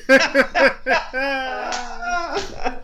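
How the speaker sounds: words through loud laughter; cracking up mid-sentence; laughing. Real, not acted. Host cracking up at sign-off.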